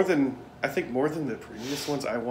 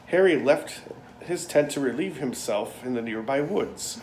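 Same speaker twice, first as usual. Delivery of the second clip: dramatic news read; 3 dB louder than usual. Pretend. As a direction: read it like a lurid headline. Reading tabloid article dramatically.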